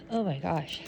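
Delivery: talking through a yawn. Real, not acted. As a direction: say it mid-yawn, tired. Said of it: "Sorry for all the yawns".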